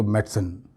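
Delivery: "मेडिसिन" run together as MET-sen; fluent two-syllable "मेडिसिन", med-sn; fluent pronunciation. Shown as a demonstration. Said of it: "जब रवानी में बोलेंगे आप".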